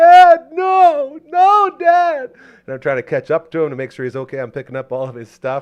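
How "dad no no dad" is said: very high, very loud tearful crying wail. Retelling a childhood ski accident after watching a fall: imitating own past crying. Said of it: "so I'm crying, like".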